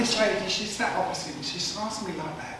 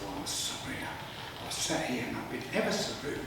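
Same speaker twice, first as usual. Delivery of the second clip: mock sheepish; 8 semitones lower, 7 dB quieter than usual. Punchline mock apology.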